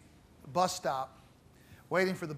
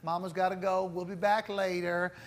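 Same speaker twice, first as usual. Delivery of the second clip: sweet-talking; 4 dB quieter than usual. Retold or imitated. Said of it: "talked to him very sweetly".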